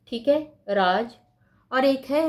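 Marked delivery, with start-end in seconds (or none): 0.7-1.2 राज as "raaj"; j sound. Shown as a demonstration. Teacher repeats the first word, राज with final j. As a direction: close राज on a hard j. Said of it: "क्या difference है दोनों में?".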